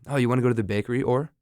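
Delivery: German-style question left hanging on "or"; German learner's English. Retold or imitated. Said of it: "end every question like".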